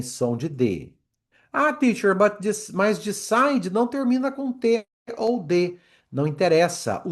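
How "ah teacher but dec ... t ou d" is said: high-pitched mock pupil protesting; whiny-pitched pupil interrupting the teacher; objecting student. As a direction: put on a much higher student voice.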